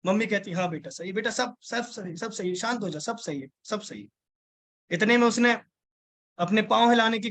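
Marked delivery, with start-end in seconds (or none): 0.5-4.1 calm her down gently, fading to a murmur; a mother quietly comforting her hurt daughter, softly; soothing mother. Retold or imitated.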